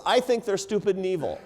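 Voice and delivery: retold heckle, pitched high; mock yell. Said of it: "she yells out from the audience".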